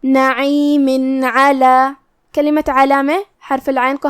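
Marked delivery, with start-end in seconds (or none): 0.0-1.9 recited join. Shown as a demonstration. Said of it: "تو ہم یہاں تنوین ظاہر کریں گے".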